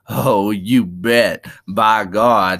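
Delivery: drawn-out, mildly gleeful exclamation; a touch of happy enthusiasm; happy cry. Acted. Lenny delighted at talk of velvet, happy. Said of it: "he cried happily".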